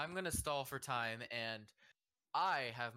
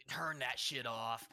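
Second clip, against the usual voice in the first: slow, mild mock yell; retold yell; slower than usual. Worker in storyteller's face, mock yelling slowly. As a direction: imitate yelling, drawn out and held back. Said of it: "he was just yelling in my face".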